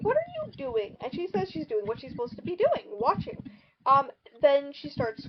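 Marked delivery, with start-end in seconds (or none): 0.0-1.0 much higher, startled retold question; a sudden alarmed ask, pitched way up. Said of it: "and he's like".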